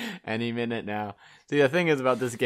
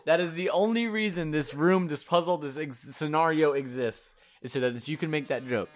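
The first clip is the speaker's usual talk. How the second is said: amused rant; 4 semitones higher, 3 dB louder than usual. Real, not acted. Laughing rant at the game.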